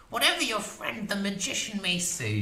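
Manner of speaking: high, fierce crone voice; witch voice. A narrator's reading. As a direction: boast like a proud old witch.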